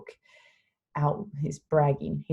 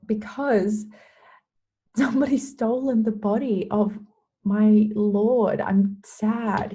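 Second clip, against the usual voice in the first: high, louder pleading retelling of grief; mock-distressed, voice pitched up; imitated upset; 4 semitones higher, 4 dB louder than usual. Mary explains to the angels why she cries, upset. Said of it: "She's crying".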